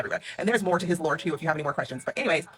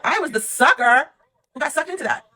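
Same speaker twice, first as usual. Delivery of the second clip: mock self-pity; 10 semitones higher, 9 dB louder than usual. Real, not acted. Bitter punchline about herself.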